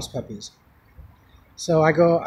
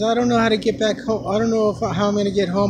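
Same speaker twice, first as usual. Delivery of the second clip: high-pitched retold lament; imitating distressed woman; 5 semitones higher, 3 dB louder than usual. Stranded woman tells him she has no money, imitated distress. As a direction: pour out her troubles in a higher voice. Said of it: "She was crying up a storm".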